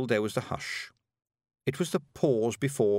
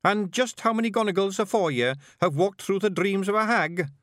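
high, brisk Scottish little warrior; higher Scots brawler, impatient; Scottish pictsie leader; 9 semitones higher, 4 dB louder than usual. Acted. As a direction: bark it out like a tiny Scots chieftain. Rob asks.

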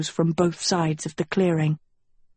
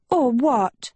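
simpering; 5 semitones higher than usual. Acted. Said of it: "she simpered".

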